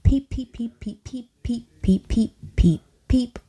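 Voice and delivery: high chirpy peeps; peeping. A narrator's reading. Girls peeping all over the room, high chirps. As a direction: chirp like a bunch of chicks. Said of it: "all of us were peeping".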